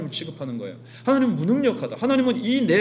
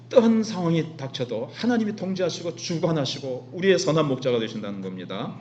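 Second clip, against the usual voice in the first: ordinary delivery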